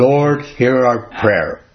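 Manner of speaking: slow, mechanical recital with no heart; rote prayer. Retold or imitated. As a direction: recite it by habit without meaning it. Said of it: "said in rote".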